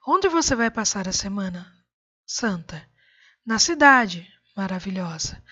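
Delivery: "Na Cidade," then "Maravilhosa" as a compliment to the asker; comma before Maravilhosa. Shown as a demonstration. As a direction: break after "Cidade", "Maravilhosa" addressed to the person. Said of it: "faz um elogio a quem lhe fez a pergunta". (pausa antes de "Maravilhosa", elogiando quem perguntou)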